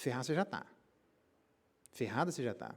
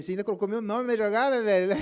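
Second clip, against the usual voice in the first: louder, faster, higher, half laughing; laughing disbelief; 5 semitones higher, 7 dB louder than usual. Retold or imitated. Pastor retelling his reply to the man, laughing disbelief. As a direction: blurt it out, cracking up.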